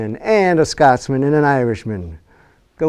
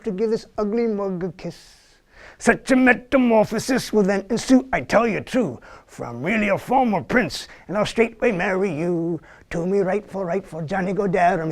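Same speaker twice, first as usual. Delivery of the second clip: lightly voiced cheeky Irish frog, a bit higher; a frog pleading for a kiss, sung a touch higher; Fred the Talking Frog; 6 semitones higher than usual. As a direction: coax like a sly frog wooing a princess. Frog's song in the story.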